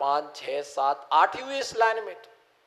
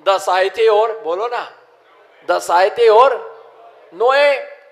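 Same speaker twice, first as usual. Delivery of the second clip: mock wailing; 7 dB louder than usual. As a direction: wail the lost count like a crying villager. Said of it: "वो भी रोने लगा".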